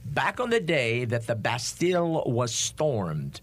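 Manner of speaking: slow, drawn-out quiz host; game show announcer. Acted. Repeats the question dramatically.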